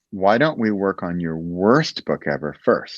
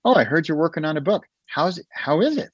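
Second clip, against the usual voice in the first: higher, quick, chatty pub voice; light imitation of a nosy acquaintance, higher and fast; curious pub acquaintance; 6 semitones higher than usual. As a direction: ask brightly like a curious stranger at the bar. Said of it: "somebody says".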